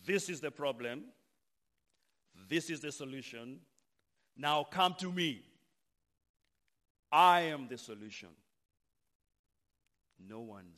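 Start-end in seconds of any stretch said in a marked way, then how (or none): 0.0-8.4 loud, declaring proclamation; emphatic preacher. Acted. Jesus offers himself as the solution, emphatic proclamation. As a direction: proclaim it forcefully, building to a loud finish. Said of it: "But this one, this preacher says".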